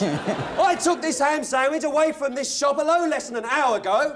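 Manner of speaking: Monty Python complaint. Acted. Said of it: "Monty Python".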